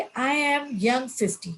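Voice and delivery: slow, deliberate self-affirmation; slow, proud declaration of youth. Shown as a demonstration. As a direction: savour each word as you declare yourself young. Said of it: "तो बोले".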